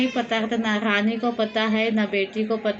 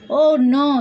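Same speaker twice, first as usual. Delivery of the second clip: shocked cry; 3 semitones higher, 7 dB louder than usual. Acted. Queen sees plate break.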